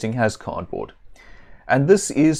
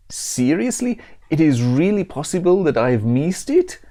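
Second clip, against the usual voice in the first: hammed-up Italian straying into Mexican; a badly faked, vaguely Italian accent; 4 semitones higher than usual. Pizza elemental doubts it missed the city, in a mock Italian accent. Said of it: "straying vaguely Mexican".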